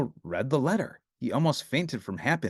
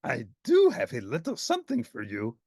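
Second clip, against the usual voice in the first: croaking Grover. Acted. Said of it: "croaked Grover".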